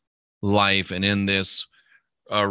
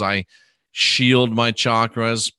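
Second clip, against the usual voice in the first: slow affirmation; slower than usual. Shown as a demonstration. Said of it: "then I'd say".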